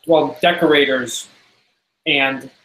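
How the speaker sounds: talking while chewing chocolate almonds; mouth full. Real, not acted. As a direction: speak through a mouthful of almonds. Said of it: "sorry, I'm eating chocolate covered almonds".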